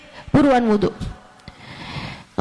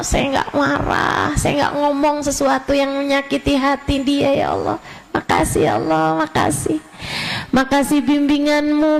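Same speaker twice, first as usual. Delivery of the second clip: sample thanksgiving prayer. Shown as a demonstration. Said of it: "Kamu bilang".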